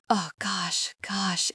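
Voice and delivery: breathy whispered sigh; relieved sigh. A narrator's reading. Narrator sighing with relief on the phone, whispered. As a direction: let the words out on a whispered breath. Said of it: "I sigh with relief".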